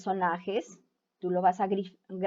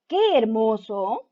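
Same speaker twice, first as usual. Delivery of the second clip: slow, admiring exclamation; with emotion; 4 dB louder, slower than usual. Retold or imitated. The fox marvelling at something beautiful, slow admiring exclamation. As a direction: draw it out in wonder, a little louder. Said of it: "lo hace con esa emoción".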